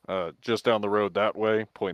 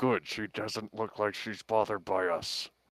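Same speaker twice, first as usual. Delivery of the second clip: slight quieter whisper through gritted teeth, smiling; 5 dB quieter than usual. Speaking in character to companions while smiling and waving: slight whisper through gritted teeth. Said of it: "I say through gritted teeth, ... a smile, but also a slight whisper".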